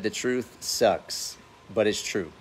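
very slow, drawn-out quote of a friend. Retold or imitated. Quoting Richie's remark to viewers, very slow and drawn out. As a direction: stretch each word out like a friend's wise line. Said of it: "He said".

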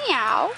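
cat meow. Shown as a demonstration. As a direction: meow like a kitty. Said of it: "What's the kitty cat say?".

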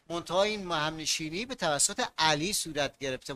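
ordinary talk

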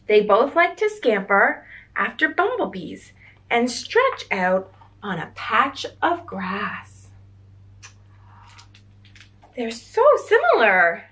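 gentle storybook read-aloud for little ones; reading to children. A narrator's reading. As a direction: read it like a bedtime picture book. Reads picture book to children.

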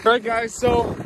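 a bit winded, catching breath. Real, not acted. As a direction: talk while still winded. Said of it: "I'm a little winded now".

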